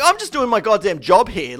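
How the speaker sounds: loud, high retold protest; firing off. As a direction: re-enact an indignant outburst. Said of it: "I'm still firing off".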